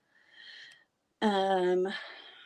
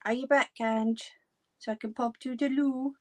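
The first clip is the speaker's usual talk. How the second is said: calling out; 7 semitones higher than usual. Real, not acted. Calling out to Ange again.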